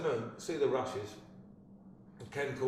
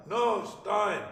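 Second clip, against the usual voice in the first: higher, louder "No, Stein" bellowed; impatient shout; 11 semitones higher, 9 dB louder than usual. Retold or imitated. Director shouting the word at Wagner. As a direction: bark the correction across the room.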